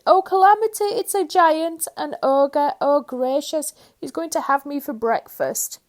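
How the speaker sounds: very high, loud terrified wailing; panicked wail. A narrator's reading. Mister Jelly sure the ogre will eat him, shrieking.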